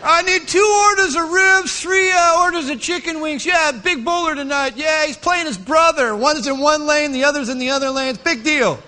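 shouted takeout order, high and loud; loud excited order. Acted. Caller ordering ribs for bowling night, loud and high. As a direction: bark the order across the counter.

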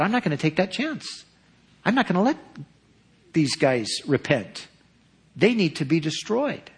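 a touch of mocking stubbornness; defiant Jonah. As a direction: play the prophet digging in his heels. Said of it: "That was his attitude".

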